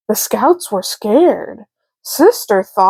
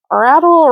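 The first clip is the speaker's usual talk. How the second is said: rattling knob sound; 6 semitones higher, 3 dB louder than usual. A narrator's reading. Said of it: "rattle went the knob".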